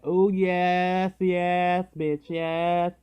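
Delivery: delighted whoop; gleeful cheer. Retold or imitated. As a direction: celebrate getting the room alone. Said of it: "I'm like".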